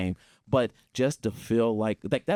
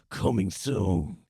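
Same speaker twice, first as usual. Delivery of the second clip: movie trailer voice; 2 semitones lower than usual. Retold or imitated. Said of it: "like, movie voice".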